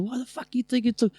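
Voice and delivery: high-pitched mock rant; imitated ranting. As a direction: play the exasperated ranter, pitch well up. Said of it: "he's just ranting".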